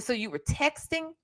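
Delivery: mock indignant cross-examination; incredulous retold question. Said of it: "I said".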